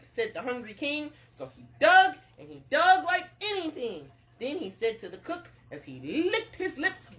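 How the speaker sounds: animated read-aloud narrator; story narration. A narrator's reading. Narrator tells of the king fishing, story narration. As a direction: tell it with bouncy emphasis.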